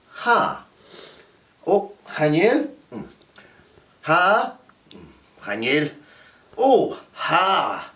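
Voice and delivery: playful hairdresser, questioning and coaxing; hairdresser mime with ha and chanel. Shown as a demonstration. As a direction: coax the customer using only two words. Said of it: "pretend ... I'm a hairdresser".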